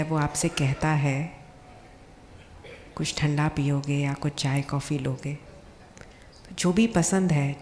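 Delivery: calm guided visualization with long pauses; guided meditation. Acted. Speaker guides seated doctors on an imagined journey home, guided meditation. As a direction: lead them gently, phrase by phrase, leaving long pauses.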